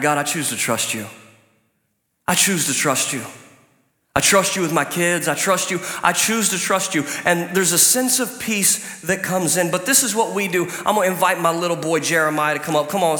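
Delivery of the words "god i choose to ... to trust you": sincere prayer. Shown as a demonstration. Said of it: "I say it out loud sometimes".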